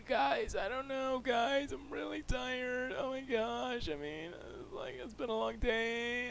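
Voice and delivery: high, drawn-out tired whine; put-on worn-out whiner; whiny complaining. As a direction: whine it way up high, stretching the words. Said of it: "if somebody talked like that".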